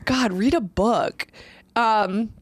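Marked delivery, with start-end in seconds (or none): 0.1-1.3 mock prison taunt.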